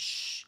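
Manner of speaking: Sh- held long and soft like hushing; drawn-out sh. Shown as a demonstration. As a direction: stretch the Sh- out. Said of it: "like you hushing someone". (ลากเสียง Sh- ยาวๆ)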